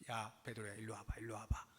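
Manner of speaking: low, soft beckoning to Peter; Jesus quietly calling Peter over. Acted. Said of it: "예수님께서 베드로를 조용히 부르시는".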